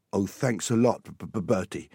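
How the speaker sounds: lightly voiced boy with a stammer; stammered mild sarcasm. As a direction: stumble on the first sound of the name.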